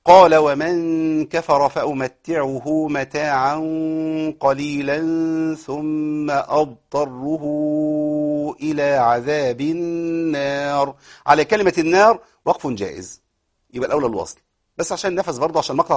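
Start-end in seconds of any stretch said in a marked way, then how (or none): 0.0-10.9 very slow melodic tajweed chant; Quran recitation. Shown as a demonstration. Teacher chanting the verse to show the stops, slow recitation. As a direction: draw every vowel out in recitation.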